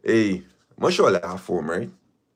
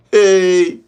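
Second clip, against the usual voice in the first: mock outburst; 6 semitones higher, 8 dB louder than usual.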